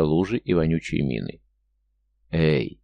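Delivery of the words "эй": put-on drunken sailor hailing; slurred low call out. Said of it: "пьяно окликнул его морячок".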